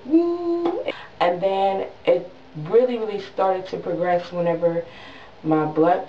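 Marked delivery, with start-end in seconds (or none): 0.1-0.8 high, drawn-out "woo"; imitated whoosh. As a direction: mimic swelling up with a high woo. Imitates herself ballooning up.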